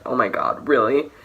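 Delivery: mock outrage at dad's joke; exasperated disbelief. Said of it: "Just been like".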